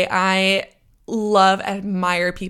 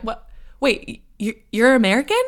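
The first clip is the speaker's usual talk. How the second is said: halting, rising disbelief; taken aback, stumble into the question; retold surprise; 3 semitones higher than usual. Caller learns the British-sounding lawyer is American, surprised.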